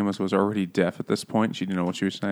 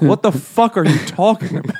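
fast, higher, laughing disbelief; laughing mock bafflement; 8 semitones higher, 6 dB louder, faster than usual. The court baffled by Manette, laughing disbelief. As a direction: blurt it out cracking up.

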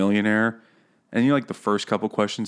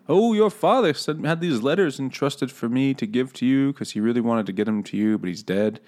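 put-on old man voice; 3 semitones higher than usual. Old messenger hands over letters.

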